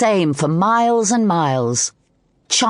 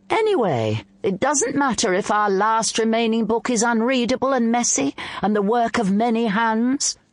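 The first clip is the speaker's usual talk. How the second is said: piping up; 6 semitones higher than usual. Acted. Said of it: "the storyteller piped up suddenly".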